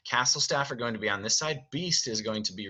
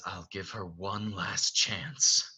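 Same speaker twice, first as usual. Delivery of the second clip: restrained Beast; 2 semitones lower, 3 dB quieter, slower than usual. Acted. Beast holding back anger.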